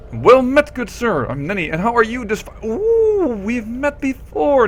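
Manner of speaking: put-on a chirpy young woman greeting a stranger; sweet Nenny voice. Nenny greeting the visitor, bubbly and sweet.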